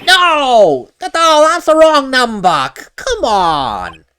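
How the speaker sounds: frustrated outburst. Acted. Gumshoe upset at radio.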